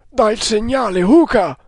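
high, rising to a loud call on the name; urgent command. A narrator's reading. Indian ordering his companion to sound the signal, urgent command. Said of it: "comandò l'altro".

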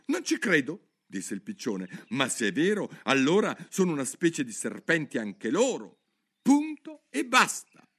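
worried pigeon complaining on and on; fretful pigeon. Acted. (piccione ansioso che si lamenta)

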